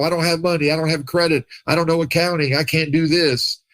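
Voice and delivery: lightly voiced whining excuses; imitating people who keep saying what they can't do; whiny excuse-maker. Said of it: "People always focus on what they can't do".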